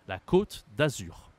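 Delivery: slow côte with a closed, rounded O; circumflex ô. Shown as a demonstration. Teacher repeats the French name for learners, slow closed O in côte. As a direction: say côte slowly, O held and closed. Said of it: "ça change la prononciation en français".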